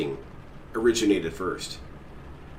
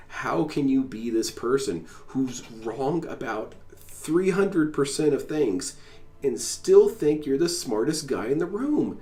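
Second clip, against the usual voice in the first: imagined rant; 4 semitones higher, slower than usual. Retold or imitated. Ranting at the streamer in his head, slow and swelling. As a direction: build from pleading into a yell. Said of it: "scream at him".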